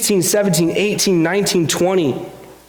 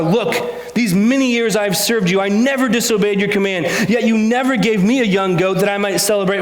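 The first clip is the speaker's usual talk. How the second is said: raised, steady reading of the parable to the congregation; scripture reading. A narrator's reading. Pastor reading the parable aloud to church, raised reading voice. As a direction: read it out to the church, lifted and clear.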